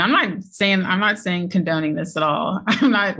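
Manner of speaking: said through a grin, a little chuckle; smiling while talking. Real, not acted. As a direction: hold back a laugh as you deny it. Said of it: "I'm kinda smiling while I say this".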